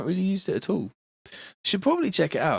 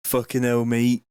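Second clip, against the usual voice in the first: West Country swearing at a mate; West Country accent; 2 semitones lower than usual. Shown as a demonstration. Streamer showing viewers his accent, West Country. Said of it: "West Country a-, accent".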